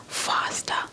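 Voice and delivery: plain reading voice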